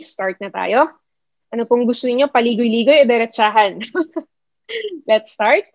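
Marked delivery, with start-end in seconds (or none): 4.4-5.7 light chuckle into the words; amused, higher-pitched kickoff; laughing. Real, not acted. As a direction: start off with a little laugh. Chuckles as she gets going.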